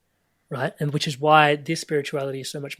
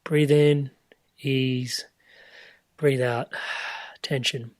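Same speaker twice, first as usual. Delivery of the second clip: guided meditation breath cues; much slower than usual. Shown as a demonstration. Sharing her own meditation breathing, a gentle guide's voice. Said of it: "for most of my meditations, it's like".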